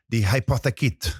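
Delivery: hammy attempt at a French accent; French-accented pronunciation of hypothèque. Shown as a demonstration. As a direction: put on your best French accent. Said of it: "that was my best French accent".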